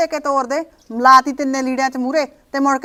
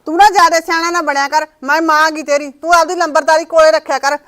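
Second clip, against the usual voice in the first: scolding; 2 semitones higher, 4 dB louder than usual. Acted. Mother scolding her son.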